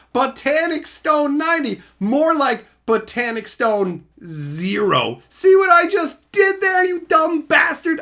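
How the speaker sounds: loud mock taunt; hammed-up jeering; mock roast. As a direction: gloat over the bad pun. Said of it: "Insult complete".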